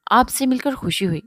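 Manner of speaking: breathless whispered pleasure; pleased, whispered. A narrator's reading. Burhan greeting Noman, whispered and pleased. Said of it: "خوش ہوتے کہا".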